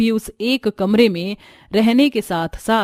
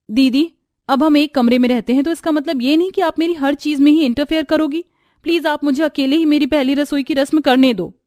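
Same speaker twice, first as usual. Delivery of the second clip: irritated complaint; 5 semitones higher than usual. Acted. Nandini snapping at her sister.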